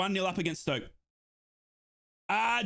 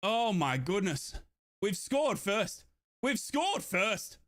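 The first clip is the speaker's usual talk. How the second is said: stunned disbelief; much slower than usual. Real, not acted.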